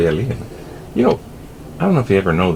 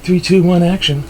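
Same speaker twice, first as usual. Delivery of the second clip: director count-in; 10 semitones higher, 4 dB louder than usual. Pretend.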